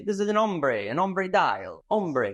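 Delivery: playful French accent, ombre said as "ombray"; a hammed-up French accent on "ombre"; mock French accent. Shown as a demonstration. Host tries a French accent for the ombre dial, mock French accent. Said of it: "trying to get my French accent".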